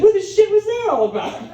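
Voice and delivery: high, quick mock disbelief; bewildered reaction. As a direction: blurt it out, baffled. Acted bewilderment after waitress leaves.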